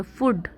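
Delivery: फुड with a short oo; फुड, short vowel before the d. Shown as a demonstration. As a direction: say फुड alone, vowel kept brief. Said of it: "short".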